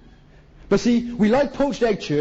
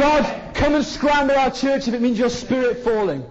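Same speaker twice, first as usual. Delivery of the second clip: fervent prayer; 5 semitones higher than usual. Real, not acted. Preacher prays for revival.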